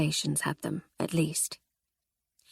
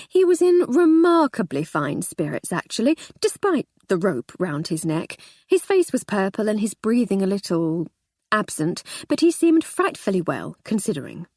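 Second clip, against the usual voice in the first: sarcastic. Acted. Sarcastic inner thought.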